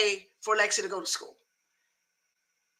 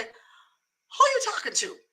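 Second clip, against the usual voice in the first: higher, drawn-out challenge; mock parental challenge; 4 semitones higher, slower than usual. Mother checking hyped-up young daughter, pointed. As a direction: stretch it out as a warning.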